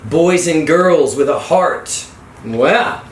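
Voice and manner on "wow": ordinary talk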